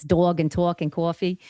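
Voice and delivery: loosened-up Jersey accent on dog, talk and coffee; New Jersey accent slipping through. Shown as a demonstration. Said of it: "the accent loosens up".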